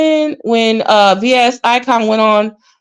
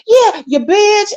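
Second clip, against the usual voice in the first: high, slow mock heckle; imitating Kimmy; 10 semitones higher, slower than usual. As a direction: drag the insult out like a chiming sidekick. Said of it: "Here come Kimmy".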